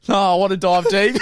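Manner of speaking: hammed-up heartfelt insistence; soap-opera earnest. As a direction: insist like a soap hero, half laughing. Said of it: "playing Bold and the Beautiful".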